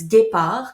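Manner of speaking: "Guépard" said as French gay-PAR, stress at the end; French pronunciation. Real, not acted. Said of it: "a really French name".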